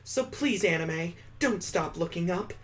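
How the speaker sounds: gently voiced heroine making a promise; Mallory's promise.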